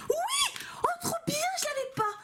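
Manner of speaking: very high, thin shriek of delight; overjoyed squeal. Real, not acted. Vlogger pulling a card she lacked, overjoyed squeal. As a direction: squeal with real joy.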